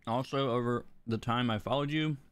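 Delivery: talking around ice; words round a mouthful of ice. Real, not acted. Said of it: "sorry, ice in my mouth".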